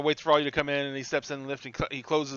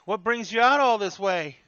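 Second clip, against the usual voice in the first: higher, curious porter voice; curious old bellhop; 6 semitones higher, 4 dB louder than usual. Acted. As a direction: ask guests with lifted pitch. Bellhop questions the guests.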